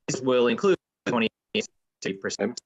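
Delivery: slow, choppy call audio; words dropping out on a bad line; breaking up. Real, not acted. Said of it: "you're breaking up again".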